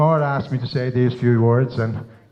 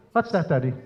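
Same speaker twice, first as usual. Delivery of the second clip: lightly mimicked small daughter with a Dublin accent; a hint of a Dublin child asking Daddy; little girl's Dublin accent; 4 dB quieter than usual. Three-year-old daughter pestering Daddy at breakfast, light Dublin accent. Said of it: "she's a real Dublin accent".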